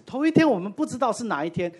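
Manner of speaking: normal talking voice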